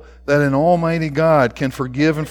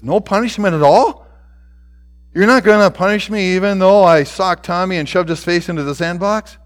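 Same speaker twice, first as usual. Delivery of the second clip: high, disbelieving questions; incredulous boy; 4 semitones higher, 5 dB louder than usual. A narrator's reading. Boy questions the principal about escaping punishment, incredulous. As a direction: rise into louder, astonished questioning.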